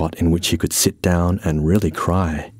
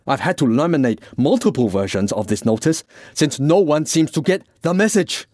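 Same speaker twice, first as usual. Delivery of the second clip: slightly higher, mounting exasperation; lightly voiced exasperated Francis; 6 semitones higher than usual. Francis complains nobody heeds his notice, mildly exasperated. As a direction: build the grievance toward the end.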